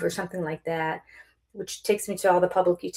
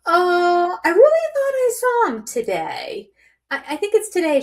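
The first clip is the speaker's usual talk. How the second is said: timid protest; 9 semitones higher than usual. Retold or imitated. Retold unsure reply to lady.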